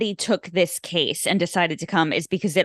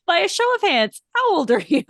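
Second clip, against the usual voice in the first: higher-pitched, lightly imitated public speaker; mock speechmaker; 10 semitones higher, 3 dB louder than usual. Comedian reading a random card at city hall, lightly mocked speech. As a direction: put the question as if addressing a hall, pitched up. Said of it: "Murrah is giving this speech".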